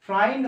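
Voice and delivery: ফ্রাইন্ড with "fry" as its vowel sound; mistaken pronunciation. Shown as a demonstration. Teacher shows what the spelling would give, mistaken ফ্রাইন্ড with an "eye" vowel. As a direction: say ফ্রাইন্ড to rhyme with "find". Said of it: "ফ্রাই উচ্চারণ হয়".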